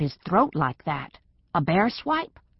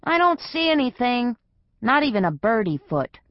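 prissy cat voice; 6 semitones higher than usual. Acted. Gray cat asks the dog about tracks, high and prissy. Pewter reports from down road.

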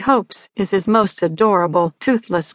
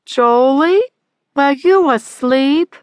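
higher, louder mother's voice; mother shouting; 5 semitones higher, 4 dB louder, slower than usual. A narrator's reading. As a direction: call out as an insistent mother. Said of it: "Sylvia shouted".

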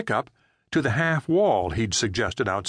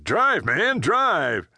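high, louder frantic command; frantic shout to get moving; urgent shout; 8 semitones higher, 3 dB louder, much slower than usual. Acted. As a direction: bark the order to floor it. Frank urges Jerry to flee.

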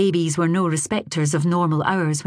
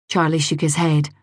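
ordinary delivery, nothing marked

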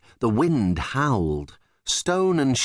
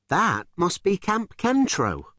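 Gypsy's voice; 8 semitones higher than usual. Acted. Gypsy reads her tracker.

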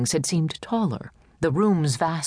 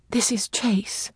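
hushed, breathy aside; whispered introduction; 6 semitones higher, slower than usual. Acted. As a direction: whisper the name so only he hears. Evelyn quietly introduces Chase.

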